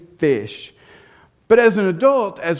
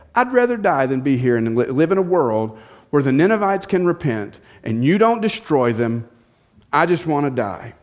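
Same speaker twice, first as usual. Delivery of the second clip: angry Jonah. Retold or imitated. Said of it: "He is so angry".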